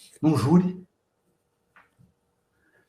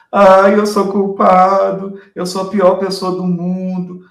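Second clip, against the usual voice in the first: slow, drawn-out lament; mock whining; 4 dB louder, slower than usual. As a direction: ham up a guilty crybaby. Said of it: "a pessoa que tá chorando". (lamento choroso, arrastado e exagerado)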